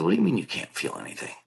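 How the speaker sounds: retold disbelief. Questioning an injured friend who feels nothing, retold disbelief. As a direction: question it in mock alarm, pitch jumping. Retelling his alarmed reply to friend.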